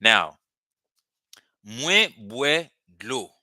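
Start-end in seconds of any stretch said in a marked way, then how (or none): 1.6-3.3 slow, drawn-out words, pitched higher; slow teaching model. Shown as a demonstration. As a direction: model each word separately for learners. Teacher models a Creole sentence.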